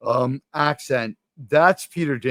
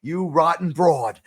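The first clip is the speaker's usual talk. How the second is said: Cagney-style tough guy; 3 semitones higher than usual. Retold or imitated. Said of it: "James Cagney is like".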